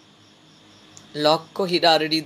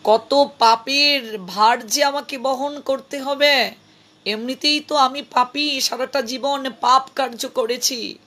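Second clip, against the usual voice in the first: tearful pleading. Acted. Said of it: "হাউমাউ করে কেঁদে উঠলেন".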